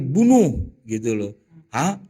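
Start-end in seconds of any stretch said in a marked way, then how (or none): 0.0-0.6 a loud, blunt order; blunt command. Retold or imitated. Quoting the hadith's stark order to the class. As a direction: state it hard and short. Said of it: "kata Nabi".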